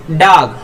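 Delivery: "डॉग" said "daag", open "aa" vowel. Shown as a demonstration. Teacher giving the example "डॉग" with an open "aa". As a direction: say "डॉग" with a long "aa". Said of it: "ये ओ जो है आ हो जाएगा".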